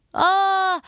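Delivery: put-on high, loud baby scream; baby wail. A narrator's reading. Baby wakes in the drawer and screams: high, loud wail. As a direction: howl like a startled infant. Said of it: "орал Валя из ящика комода".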